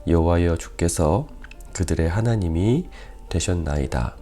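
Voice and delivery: measured, solemn Bible reading, firm on each address to God; scripture reading. Real, not acted. Pastor reads David's prayer to the congregation, formal scripture reading. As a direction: read the passage out to a congregation.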